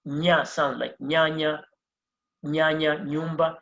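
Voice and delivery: ñ said as a palatal ny in "nyanya"; teacher showing the ñ sound as "nya". Shown as a demonstration. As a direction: glide the n into a y sound, as in "nyumba". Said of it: "which gives the".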